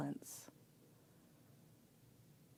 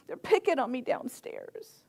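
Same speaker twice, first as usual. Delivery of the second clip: higher, mildly plaintive little daughter; mock tearful child; 4 semitones higher than usual. Little daughter tells her dad about teasing, mildly tearful. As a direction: lightly imitate a crying little girl. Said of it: "and she's crying".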